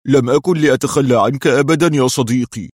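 loud, heartfelt vow through tears of joy; emotional, emphatic outburst; joyful exclamation. A narrator's reading. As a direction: exclaim it with overflowing loyalty. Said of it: "هتف قدري ودموع الفرح تتدفق من عينيه".

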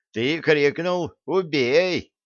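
indignant defence; standing up for someone. A narrator's reading. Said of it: "заступился за соотечественника Фил".

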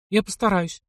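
ordinary delivery, nothing marked

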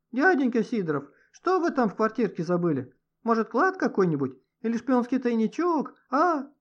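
high, sing-song mock-innocent questioning. A narrator's reading. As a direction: tease him with a silly childish voice. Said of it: "насмешливо поинтересовался Никита".

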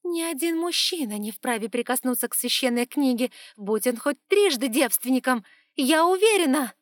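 loud, high, rising fury; furious. Acted. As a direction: scream it out in fury. Priestess rages at men.

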